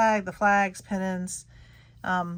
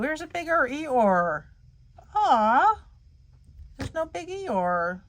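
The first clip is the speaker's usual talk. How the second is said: higher pitched, mock-sad "aw"; playful disappointment; 8 semitones higher, slower than usual. Real, not acted. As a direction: pout over the missing Eeyore. Looking for Eeyore, none found.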